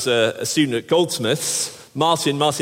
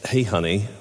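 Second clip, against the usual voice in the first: bad American accent; 6 semitones lower than usual. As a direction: have a go at an American truck-stop dad accent. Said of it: "terrible attempt at an accent".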